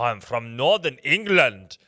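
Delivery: loud, slow mangled Northern English; Northern English accent sliding towards Schwarzenegger; botched Northern English accent. Shown as a demonstration. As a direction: overdo a shaky attempt at Northern English. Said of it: "now I sound like Arnold Schwarzenegger".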